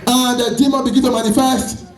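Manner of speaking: forceful, emphatic sermon delivery; fervent preaching. Real, not acted. Preacher warning the congregation about false hair, fervent preaching.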